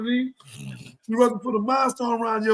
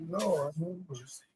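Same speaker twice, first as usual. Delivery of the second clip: dismayed sigh; 6 semitones lower, 13 dB quieter than usual. Retold or imitated. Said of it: "I said".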